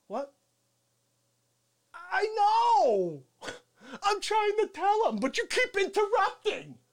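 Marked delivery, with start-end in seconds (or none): none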